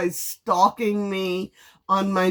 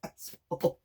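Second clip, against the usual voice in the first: quoting therapist; 3 semitones higher, 4 dB quieter than usual. Retold or imitated. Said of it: "'Cause they were like".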